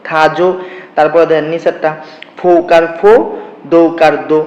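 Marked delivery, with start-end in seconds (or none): 0.1-0.5 "থা জো" pronounced loudly in two separate syllables; syllable-by-syllable demo. Shown as a demonstration. Teacher answers own question on the pronunciation, syllable by syllable. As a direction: give "থা" and "জো" each its own loud beat. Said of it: "তাহলে উচ্চারণ কি হবে".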